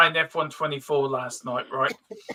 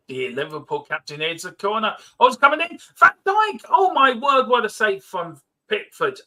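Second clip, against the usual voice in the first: match commentary with a burst of excitement; football commentary. Acted. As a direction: call the corner like a TV commentator.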